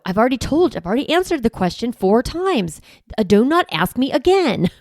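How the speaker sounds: mock exasperated nagging; exasperated parent. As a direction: play the fed-up parent, mildly. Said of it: "they'll insult".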